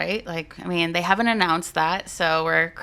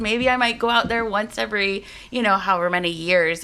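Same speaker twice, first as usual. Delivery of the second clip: higher-pitched second-guessing voice; lightly acted pondering aloud, pitched up; musing would-be buyer; 5 semitones higher than usual. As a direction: voice a buyer having second thoughts. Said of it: "they're gonna be like".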